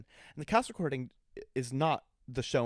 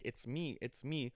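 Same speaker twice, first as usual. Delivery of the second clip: under her breath; 8 dB quieter, slower than usual. Retold or imitated. Witch owning up while Glinda is hurt, under her breath. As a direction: say it softly, almost to yourself. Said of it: "kind of under her breath".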